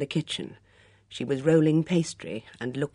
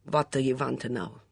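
sulky. Acted. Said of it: "she asked sulkily".

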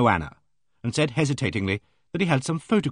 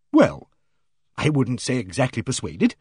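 hearty bossy lady. Acted. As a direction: play her booming and self-assured. Aimee Griffith's hearty voice.

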